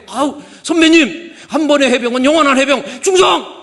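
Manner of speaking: 해병대식 경례 구호; marine salute shout. Retold or imitated. Father salutes marine senior.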